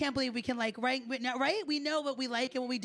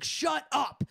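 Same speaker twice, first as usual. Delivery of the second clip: mock-angry, mildly raised voice; all-caps text; 2 semitones higher, 3 dB louder than usual. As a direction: read out an all-caps text, punching both words. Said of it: "writes in all caps".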